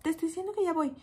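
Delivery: impatient "I'm coming" tone, lightly imitated; a hint of an irritated caller; weird snippy tone. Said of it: "ya en un tonito raro".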